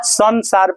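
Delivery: संसार with a clear N closing the first syllable; N sound in संसार. Shown as a demonstration. Teacher gives class the correct reading, N sound in संसार. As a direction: say संसार as "san-saar", with N. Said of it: "संसार होगा".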